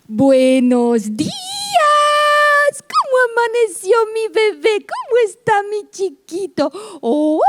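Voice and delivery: high, sing-song motherese; baby talk. Shown as a demonstration. Mother greeting her waking baby in high baby talk. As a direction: coo at the baby like a doting mom. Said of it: "algo similar a esto".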